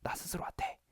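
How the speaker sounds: hushed, voiceless whisper to oneself; demonstrated whisper. Shown as a demonstration. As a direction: whisper it privately to yourself. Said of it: "스스로한테 속삭이는 거예요".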